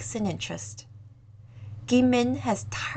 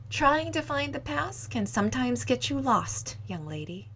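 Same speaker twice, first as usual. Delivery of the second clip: wistful; 3 semitones higher, 5 dB quieter than usual. Acted. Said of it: "gave a sad smile".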